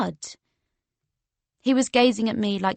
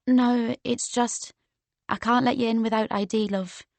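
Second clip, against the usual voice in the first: Geordie bouncer. Acted. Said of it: "in a strong Geordie accent".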